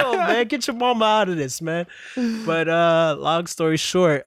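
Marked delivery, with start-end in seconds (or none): 0.0-1.9 exasperated. Retold or imitated. Kid scolds in retold story.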